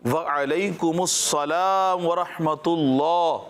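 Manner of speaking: slow, careful call-and-repeat; slow recitation. Shown as a demonstration. Teacher leading kids to repeat the reply slowly. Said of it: "سب نے مل کر دہرانا ہے".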